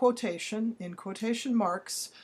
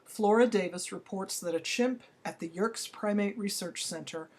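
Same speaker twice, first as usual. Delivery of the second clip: dictating. Shown as a demonstration. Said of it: "This is an in-text citation".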